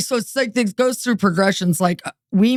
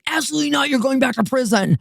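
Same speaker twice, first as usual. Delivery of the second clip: higher-pitched mock official refusal; stern probation officer; 5 semitones higher, faster than usual. Probation officer refusing inmates' marriage, mock stern refusal. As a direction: imitate an officer flatly forbidding it. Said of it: "'Cause they'll say".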